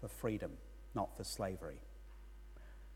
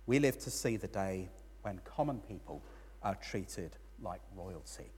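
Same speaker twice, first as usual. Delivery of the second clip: calm, softer correction fading very quiet; calm reply; 3 semitones lower, 3 dB quieter than usual. Retold or imitated. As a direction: answer gently, letting it settle. Friend answers with a gentle correction.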